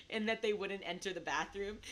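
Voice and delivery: words tipping into laughter; amused, laugh bubbling up; giggling. Real, not acted. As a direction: finish the joke while trying not to giggle. Giggling at own joke.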